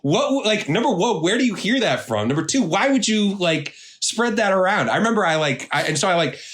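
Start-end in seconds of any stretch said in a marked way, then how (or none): 0.0-4.9 retold indignant questioning, pitched up; personally offended. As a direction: demand answers in higher-pitched, affronted disbelief. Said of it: "personally offended".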